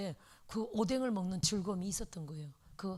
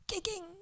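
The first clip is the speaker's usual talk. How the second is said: whimpering yelp; 9 semitones higher, 5 dB quieter, slower than usual. Retold or imitated. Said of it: "찌그러진 거야".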